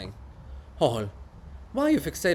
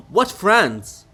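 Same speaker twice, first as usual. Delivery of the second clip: mocking laugh; 5 semitones higher, 5 dB louder than usual. The speaker mocks the idea of friends.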